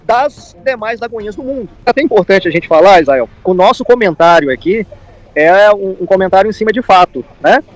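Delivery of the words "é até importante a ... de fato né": louder, pressing each point home; emphatic. Real, not acted. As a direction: insist firmly, almost pleading. Insisting the comment is only fact.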